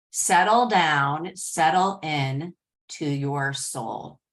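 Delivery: guided meditation. Acted. Host guides the group to settle in, guided meditation. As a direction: ease them inward, drawing out each phrase.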